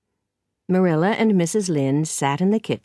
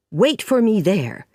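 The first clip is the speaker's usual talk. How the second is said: firm follow-up order, slightly raised; stern Marilla; 3 semitones higher, 4 dB louder than usual. Acted. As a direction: lay down the law to a child. Marilla orders Anne away.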